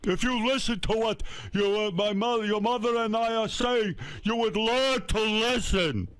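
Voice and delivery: high, strained, drawn-out hollering; yelling dad impression. Father yelling at his child for interrupting, high full-force shout. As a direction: imitate Dad's furious dinner-table tirade. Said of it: "he was busy yelling at me".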